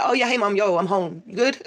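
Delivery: put-on high breezy casual teen voice; nonchalant teen. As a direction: toss it off like nothing happened. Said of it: "in the most nonchalant manner".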